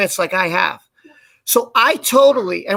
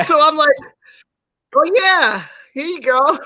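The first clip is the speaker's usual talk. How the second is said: laughing; 5 semitones higher than usual. Real, not acted. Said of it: "laughing while retelling".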